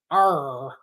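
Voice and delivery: growled pirate Arr; a quick pirate Arr. Real, not acted. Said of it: "I sound like a pirate".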